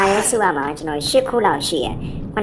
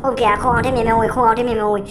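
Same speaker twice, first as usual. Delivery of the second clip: high, sudden startled cry; 6 semitones higher than usual. Real, not acted. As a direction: jump at the scare. Startled by the ghost.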